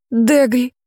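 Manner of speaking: overjoyed to see her; joyful call. Acted. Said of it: "обрадовалась мама Нейзи".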